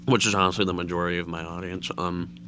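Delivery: talking while chewing candy; words around a mouthful of candy; mouth full. Real, not acted. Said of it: "something might sound a little weird is because I'm eating Airheads".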